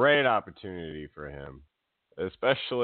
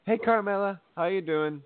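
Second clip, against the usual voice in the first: high sing-song fake-friendly hello; mock chirpy greeting; 10 semitones higher than usual. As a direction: imitate a sugary, insincere greeting. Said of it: "the Iconics were like".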